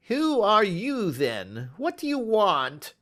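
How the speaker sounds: frightened man caught off guard; quavering voice. Acted. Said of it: "he asked in a quavering voice".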